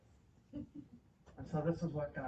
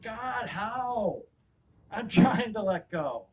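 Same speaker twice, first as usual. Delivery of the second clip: raised, straining protest; exasperated plea; 7 semitones higher, 8 dB louder, much slower than usual. Retold or imitated. Preacher replays asking God how to let go, exasperated. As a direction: push it higher and louder, stretching the complaint.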